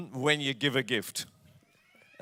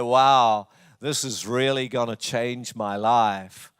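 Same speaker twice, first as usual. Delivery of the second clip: lower, slow Southern US drawl, lightly done; a hint of a slow Southern US accent; 4 semitones lower, slower than usual. Preacher quoting the homeless man's thanks in Southern US drawl. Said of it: "in his beautiful southern drawl".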